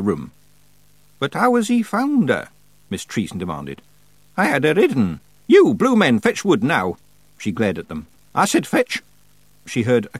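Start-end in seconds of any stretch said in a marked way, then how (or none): 1.2-7.0 put-on commanding old witch. A narrator's reading. Witch demands, orders Feegles. 8.3-9.0 stern order. A narrator's reading. Witch repeats order.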